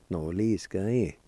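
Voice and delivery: "noliskae" slowly, as one linked word; slow, connected teaching demo of "noliskae"; careful pronunciation. Shown as a demonstration. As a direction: model "noliskae" carefully for learners. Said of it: "I'll pronounce these words one more time".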